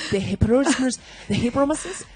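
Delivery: lightly imitated American accent saying "the hippopotamus"; mock American accent. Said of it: "Alafu una watch C S I, useme".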